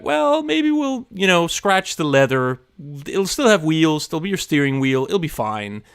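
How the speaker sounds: hedge, then talk yourself into it; hedging self-talk. Acted. Streamer imitating himself lowering his car-building goals, hedging. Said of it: "I'll be like".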